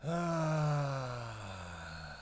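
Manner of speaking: drawn-out, sinking groan; long groan. Acted. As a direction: let out a long "ah", falling away. Long groan after a crash.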